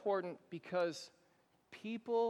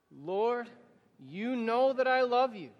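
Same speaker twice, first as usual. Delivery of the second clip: louder, higher affirmation with the congregation; spoken together, louder; 3 semitones higher, 6 dB louder than usual. Shown as a demonstration. Pastor leading the congregation's reply, louder. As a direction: declare it aloud with everyone. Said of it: "now you say it with me".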